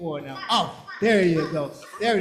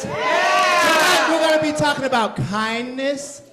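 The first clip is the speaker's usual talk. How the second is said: loud, higher burst on tonight; excited announcement; 3 semitones higher, 4 dB louder, slower than usual. Acted. Leader excitedly telling the children tonight's theme. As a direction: announce it like big news.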